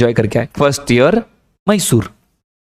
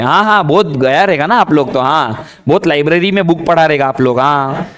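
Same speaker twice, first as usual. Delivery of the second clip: put-on sarcastic girls. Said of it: "sarcastic look दिया".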